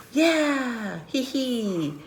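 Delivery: high, playful tee-hee; pretend giggle. Giggle voiced over the silly name.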